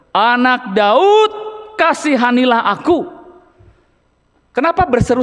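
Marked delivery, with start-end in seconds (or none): 0.1-3.2 crying out. Acted. Preacher reads the blind beggar's plea to Jesus, slow and pleading. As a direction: read the blind man's plea slowly, pleading. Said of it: "semakin keras ia berseru".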